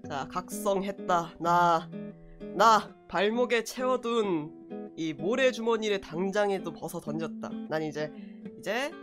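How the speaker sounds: cute anime streamer. Acted. Low dramatic declaration persona.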